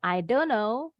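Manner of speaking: don't run straight into know, "I dono"; quick don't. Shown as a demonstration. Teacher correcting a student's reading, quick linked don't know. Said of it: "Don't-nya cepat bacanya".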